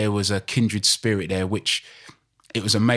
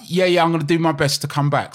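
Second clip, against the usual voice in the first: mock Cockney voice; 7 semitones higher, 4 dB louder than usual. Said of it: "He's like".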